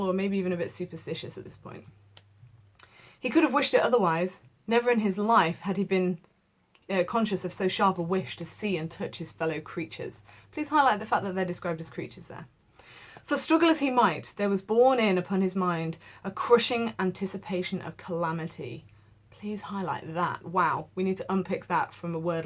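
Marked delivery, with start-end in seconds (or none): 3.2-10.2 measured classroom read-aloud; steady literary narration; story reading. A narrator's reading. Teacher reads the novel aloud. 13.2-18.9 measured classroom read-aloud; steady literary narration; story reading. A narrator's reading. Teacher reads the novel aloud.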